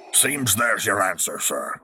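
slow, wry retort. A narrator's reading. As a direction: drawl it with dry irony. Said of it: "she retorted wryly".

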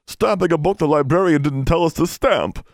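high, distressed elf squeal; frantic little creature voice; wailing elf. A narrator's reading. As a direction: confess as a self-punishing elf. Elves confess while punishing themselves.

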